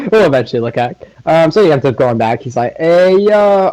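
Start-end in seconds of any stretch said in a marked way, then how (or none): 2.8-3.7 hyped greeting. Acted. Naruto greeting Yuzu.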